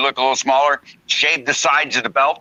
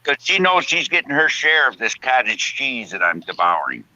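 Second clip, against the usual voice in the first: dentures clicking. Real, not acted. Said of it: "my dentures clicking".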